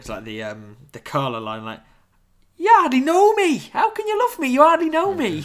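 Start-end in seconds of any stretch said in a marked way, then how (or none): 2.6-5.4 put-on Geordie accent, much higher, louder. Quoting a line from Carla while discussing a couple, in a bad Geordie accent. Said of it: "sorry for butchering that Geordie accent".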